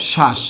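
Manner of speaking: শ্বাস said as shas, the ব dropped; শ্বাস pronounced shas without the ব; correct pronunciation. Shown as a demonstration. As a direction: say শ্বাস with no b sound, just shas. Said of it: "বফলাকে বাদ দিয়ে উচ্চারণটা কি লিখব".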